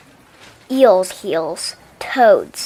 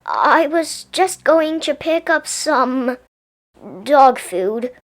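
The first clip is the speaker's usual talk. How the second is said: nervous stammer; 4 semitones higher, 3 dB louder, slower than usual. Acted. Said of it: "Helen stammered".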